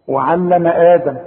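slow recitation, clear ع in "وعلم"; careful ayn. Shown as a demonstration. Teacher points out the ayn, "وعلم آدم" recited slowly. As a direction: intone "وعلم آدم" slowly, holding the long aa of "آدم". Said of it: "خد بالك من العين".

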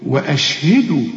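وأشهدوا with a distinct glottal stop after و; clear hamza. Shown as a demonstration. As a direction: articulate the أ of وأشهدوا separately. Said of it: "همزة قطع دي".

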